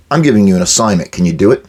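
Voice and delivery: flat, businesslike assignment; blunt and direct. Shown as a demonstration. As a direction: hand over the task matter-of-factly. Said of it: "Just like that".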